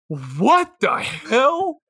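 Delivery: aghast at a gross sandwich; stunned disbelief. Real, not acted. Reacting to a sandwich, slow stunned disbelief. Shocked by the flavor combo.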